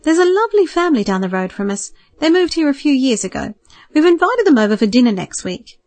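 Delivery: a mild eager lift, matchmaking in mind; hopefully. Acted. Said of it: "rather hopefully".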